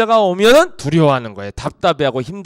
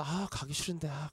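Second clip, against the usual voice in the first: much softer, whiny mutter; reluctant grumble; 18 dB quieter than usual. Retold or imitated. Girl dressing to go out, softly whining. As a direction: grumble as if dragging your feet.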